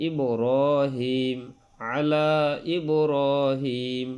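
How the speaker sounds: ইব্রাহিম drawn out very slowly, long vowels held; three-alif stretch. Shown as a demonstration. Teacher modelling a long madd on ইব্রাহিম for students. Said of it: "তিন আলিফ টানতে হয়".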